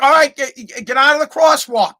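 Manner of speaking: calling out. Retold or imitated. Driver moving the kid out of the crosswalk, calling out. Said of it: "I'm yelling out the".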